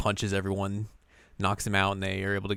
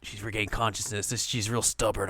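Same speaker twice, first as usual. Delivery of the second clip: hushed infant; 5 dB quieter than usual. Retold or imitated. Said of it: "And the Infant's like".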